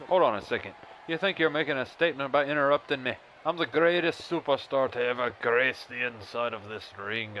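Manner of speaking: a slightly put-on cocky promo voice; arrogant wrestler. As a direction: cut in like an arrogant wrestling heel. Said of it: "do a little different voice".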